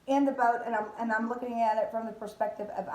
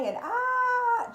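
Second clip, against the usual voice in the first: a high "ah" of mock terror; hammed-up Chicken Little shriek; mock scream; 6 dB louder than usual. Disciples in the storm, a high mock shriek. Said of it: "we're gonna die".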